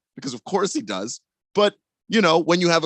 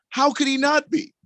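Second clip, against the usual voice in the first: P=A; high incredulous; 12 semitones higher than usual. Acted. Repeated rhetorical question, higher.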